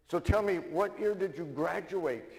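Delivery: excited. Acted. First guy at the bar asks his fellow Irishman, excited. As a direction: pounce on the question with glee. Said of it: "gets really excited and says".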